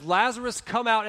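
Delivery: high, loud calling-out; loud command. Retold or imitated. Jesus calls Lazarus from the grave, loud command. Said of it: "And Jesus says".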